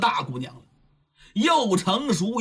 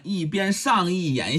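usual speaking voice

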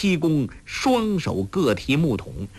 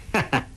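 cold laugh; 2 semitones higher than usual. Acted. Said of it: "欧阳锋冷笑道".

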